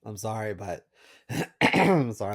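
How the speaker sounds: rough, raspy apology; hoarse voice. Real, not acted. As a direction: say it with a worn-out voice. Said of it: "I'm losing my voice here".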